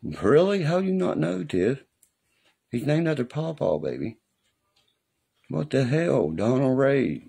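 outraged disbelief. Real, not acted. Outraged at someone's ignorance.

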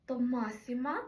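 first syllable of "масіма" stressed; stress third from end. Shown as a demonstration. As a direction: say "масіма" with the beat on МА. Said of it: "наголос уже стояв на третьому складі з кінця".

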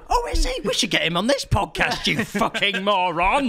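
sarcastic mock. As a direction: sneer it in a mocking voice. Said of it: "He's trying to say".

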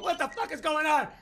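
confused shock. Retold or imitated. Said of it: "under the pool cover going".

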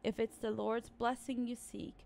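put-on slow, measured reading of old words; reading an inscription. Player reading a mausoleum inscription, slow and solemn. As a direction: read it out like an ancient riddle. Reads in-game inscription aloud.

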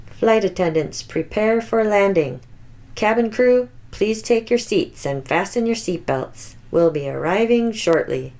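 steady captain's PA read; flight announcement. Acted. Pilot tells passengers about safety features, in an airline announcement voice.

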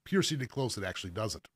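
hiccuping while talking; words broken by a hiccup. Real, not acted. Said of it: "got the hiccups there".

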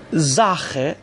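زاخه opening on a buzzed z. Shown as a demonstration. Teacher shows s before a vowel, زاخه starting with z. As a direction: start زاخه with z, then a throaty "kh". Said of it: "پس اس باید ز تلفظ بشه".

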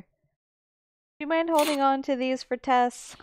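coy, drawn-out request; sheepish character voice. Acted. Tess asks investor to hold bags.

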